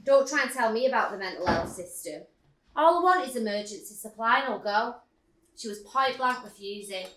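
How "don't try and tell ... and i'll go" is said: mock angry outburst at the pharmacist; retold yell. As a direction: yell at her in disbelief. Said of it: "I yelled at her".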